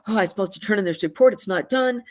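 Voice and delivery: fast, panicky rush with a gasp; freaked out. Retold or imitated. Anxious person who lost keys and forgot report, panicky and fast. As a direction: spill it out like someone who just remembered the deadline. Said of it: "they're totally freaked out".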